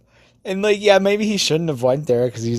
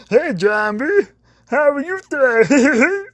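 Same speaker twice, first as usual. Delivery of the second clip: much higher, louder squeaky greeting; Pee Wee Herman greeting; 14 semitones higher, 4 dB louder than usual. Retold or imitated. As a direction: chirp it out like a hyper kid host. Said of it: "he's like".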